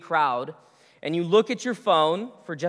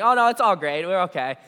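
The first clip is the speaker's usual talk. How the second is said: fake cheerful; 4 dB louder, faster than usual. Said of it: "they smile and everything".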